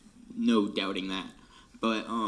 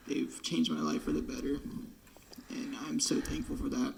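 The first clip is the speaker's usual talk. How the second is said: crying; 4 semitones higher, 3 dB quieter than usual. Real, not acted. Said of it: "it's happening".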